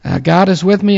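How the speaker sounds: usual speaking voice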